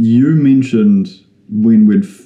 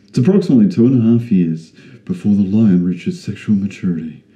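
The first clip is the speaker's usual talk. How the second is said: doco narrator voice; faster than usual. Shown as a demonstration. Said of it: "I was doing my, my doco narrator voice".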